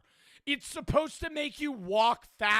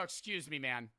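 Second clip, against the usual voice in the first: gently said, much softer; soft polite; 9 semitones lower, 10 dB quieter than usual. Retold or imitated. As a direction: say it softly and politely. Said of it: "And I say it like that".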